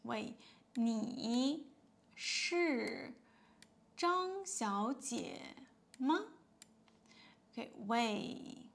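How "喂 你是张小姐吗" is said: model phone call. Shown as a demonstration. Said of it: "you start with".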